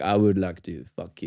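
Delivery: low, laughing, matter-of-fact; imitating Serge, low and blunt; deadpan Serge proposition. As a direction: say it flat and low, stifling a laugh. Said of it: "Then he's like".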